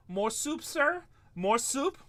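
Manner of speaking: high, loud pleading beggar; a hammed-up hungry beggar at the door; mock beggar. Broke breaker begging neighbors, hammed-up high plea. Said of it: "be like".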